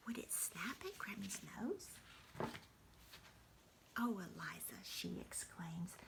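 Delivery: hushed bedtime reading without voice; whispered bedtime story. Acted. Grandmother whispering a bedtime story to the grandchild. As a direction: whisper the story to a sleepy child.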